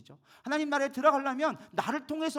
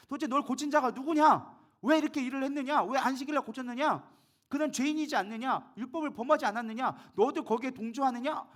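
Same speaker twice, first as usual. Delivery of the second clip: raised, mildly angry retold questioning; angry interrogation; 4 semitones higher than usual. Pharisees grilling the healed blind man, acted mildly angry. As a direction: press him with question after question, voice raised. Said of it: "화가 나서 또 따라갑니다".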